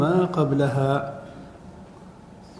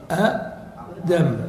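drawn out; much slower than usual. Shown as a demonstration. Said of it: "teacher drawing out the word".

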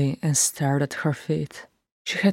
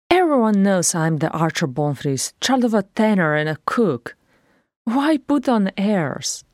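a hint of a cross dwarf; grumbling dwarf; 5 semitones higher, 3 dB louder than usual. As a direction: complain about the gown. Bonfries protests.

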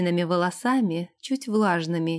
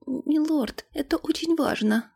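put-on high-pitched, urging servant girl; insistent maid; 7 semitones higher than usual. A narrator's reading. Maid won't give up, urging her lord, insistent. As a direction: press the point respectfully in a higher voice. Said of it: "не сдавалась служанка".

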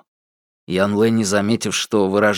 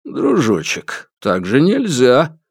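slow, unhurried a hint of an old man; calm old man; slower than usual. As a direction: calmly rein her in. Calm old man stops her.

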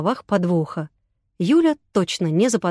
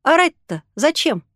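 surprised; 6 semitones higher than usual. A narrator's reading. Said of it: "удивился Артём".

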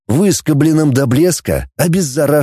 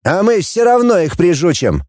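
defiant; 5 semitones higher than usual. Acted. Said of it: "и вызывающе произнёс".

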